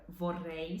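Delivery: "vorrei" with a rolled Italian double R. Shown as a demonstration. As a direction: roll the RR in "vorrei" on the tongue tip. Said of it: "é diferente a pronúncia do R". ("vorrei" com o RR vibrado italiano, na ponta da língua)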